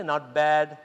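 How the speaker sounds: low, flat-toned "Not bad."; glum not bad. Shown as a demonstration. Showing the wrong answer, low glum "Not bad.". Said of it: "don't say".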